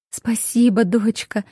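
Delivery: plain reading voice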